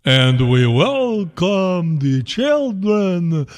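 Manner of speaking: slow, mock Italian-accented English; thick Italian accent. Old pope on the balcony, in a thick Italian accent. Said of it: "with a thick Italian accent".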